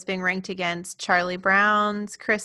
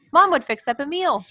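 high-pitched, lilting fond reminiscence; nostalgic Jon; 7 semitones higher than usual. Retold or imitated. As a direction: play a wistful storyteller, pitched up. Acting Jon reminiscing to Garfield.

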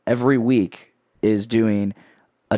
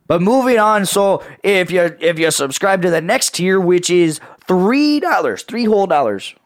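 infomercial voice; 7 semitones higher, 4 dB louder than usual. Pretend. Mock infomercial pitch.

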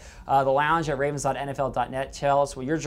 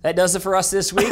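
laughing; 3 semitones higher, 4 dB louder than usual. Real, not acted. Laughing through outro.

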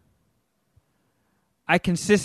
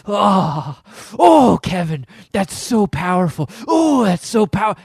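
lightly hammed-up dramatic teacher, louder; mock gushing teacher; 2 semitones higher, 5 dB louder, slower than usual. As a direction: gush over Kevin in a mild mock rapture.

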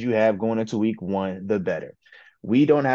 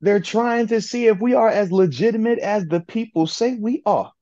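breathy vintage purr; 11 semitones higher, 4 dB louder than usual. Pretend. Hyped-up put-on voice on matchup.

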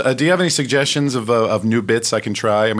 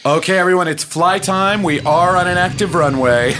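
flight attendant announcement; 3 semitones higher than usual. Acted. Attendant addresses passengers.

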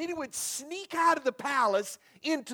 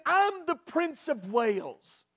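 defiant; 2 semitones higher, 3 dB quieter, slower than usual. Acted. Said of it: "stuck his chin out".

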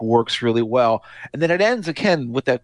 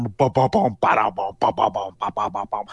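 mimicked drums; 2 semitones lower than usual. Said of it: "pompous drums behind him".

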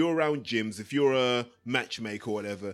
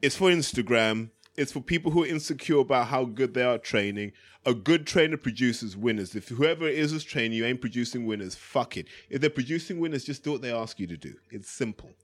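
lightly voiced cockney gym geezer; a hint of an old East End trainer; Terry.

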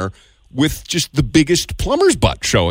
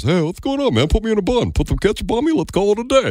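lightly voiced chill hot dog with a slight lisp; Pepper's hot dog voice; 5 semitones higher than usual. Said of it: "Or does it sound like mine, Pepper's?".

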